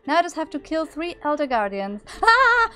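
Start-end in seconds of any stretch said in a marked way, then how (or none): 2.2-2.7 high loud startled scream. Real, not acted. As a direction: jump and scream in fright. Startled by guardian.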